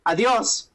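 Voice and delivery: "Adios" run together with a rise; wrong word said. Shown as a demonstration. Mocking the actress's line, Adios with a rise. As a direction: Adios said lightly as goodbye. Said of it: "She said".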